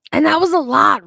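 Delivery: real breathlessness after a long chug; winded from gulping a drink; out of breath. Real, not acted. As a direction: talk while catching your breath. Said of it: "do you hear how I'm fucking out of breath".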